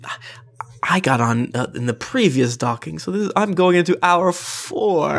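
high, tipsy party lady. Acted. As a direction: giggle and apologize lightly. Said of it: "she's like".

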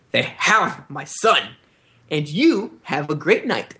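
slow, intense Tywin; a hint of a stern grandfather; voicing Tywin. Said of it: "makes intense eye contact with her and says".

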